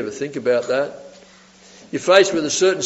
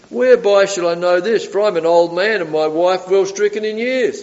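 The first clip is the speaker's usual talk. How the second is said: raised-pitch doubtful questioning; doubting; 3 semitones higher than usual. Retold or imitated. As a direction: read it as a sceptical protest. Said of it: "he responds in doubt".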